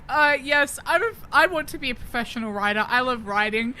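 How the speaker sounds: fast, eager little voice; quick mock fangirl answer; eager Millie impression. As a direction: rattle it off like a keen fan. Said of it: "Millie's like".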